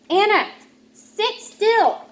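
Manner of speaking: high, loud order; stern mom. Acted. Mom telling Anna to sit still, loud. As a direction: snap the order.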